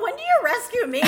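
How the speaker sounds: imitating Randall while laughing; laughing imitation. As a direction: play the husband, cracking up. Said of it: "Randall's all".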